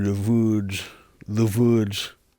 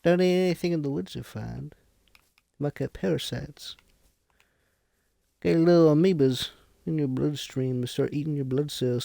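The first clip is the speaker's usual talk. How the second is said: higher put-on old-timer lecturing; cranky hermit voice; 5 semitones higher than usual. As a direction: warn like a paranoid woodsman. Cranky hermit warns about woods.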